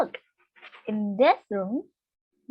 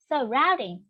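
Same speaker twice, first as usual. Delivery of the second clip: "surroundings" said as sur-ROUND-ings; second-syllable stress. Shown as a demonstration. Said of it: "It stress on the second one".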